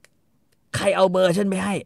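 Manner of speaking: high, loud jealous rant; wife accusing her husband about his girlfriend; mock ranting wife. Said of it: "คอนนี่ก็บอกว่า".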